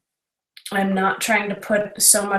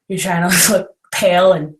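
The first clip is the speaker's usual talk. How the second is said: giggly; 5 dB louder than usual. Real, not acted. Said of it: "so I'm sorry if I sound really giggly".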